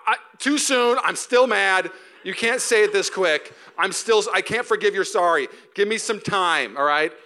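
hammed-up hurt spouse refusing a quick sorry; mock indignant spouse. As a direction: play the spouse who is still mad. Acting hurt spouse refusing apology.

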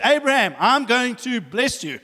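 high, emphatic proclamation; declaring a promise. Retold or imitated. God speaking promises over Abraham, declaring them boldly. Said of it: "He begins to declare and speak his promises".

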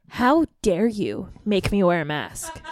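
slow, indignant Karen. Acted. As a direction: play an affronted Karen complaining, slowly. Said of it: "we could be Karens".

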